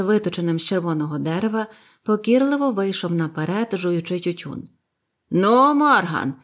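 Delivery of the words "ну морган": slow, weighty, loud "Ну, Морган"; stern. A narrator's reading. Silver sternly questions old Morgan, slow and weighty. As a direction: drag out his name like a threat. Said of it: "суворо спитав довгий Джон".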